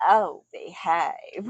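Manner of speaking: slow, drawn-out catchphrase with a Southern slip; lightly attempted spy-spoof voice; Austin Powers. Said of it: "the spy who shagged me".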